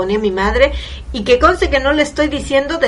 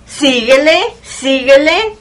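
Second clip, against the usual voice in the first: scolding; 3 semitones higher, slower than usual. Retold or imitated. Mock scolding continues.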